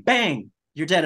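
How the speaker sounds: hammed-up kid's bang, drawn out; kid playing guns. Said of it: "So he's going around saying".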